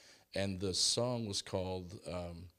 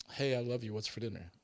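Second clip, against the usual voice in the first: light, sweet reading of a loving text; innocent, loving tone; 2 semitones higher than usual. Shown as a demonstration. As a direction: read it as a friendly question. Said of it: "where's the inflection?".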